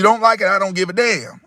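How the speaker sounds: sharp defiant shout. Acted. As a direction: yell it at the kids. Firm parent laying down law.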